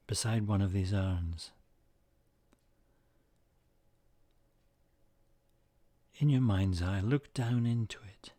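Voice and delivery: calm, measured meditation voice with long pauses; unhurried phrases, each left to settle; guided meditation. Acted. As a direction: guide listeners gently into the image, leaving space between phrases.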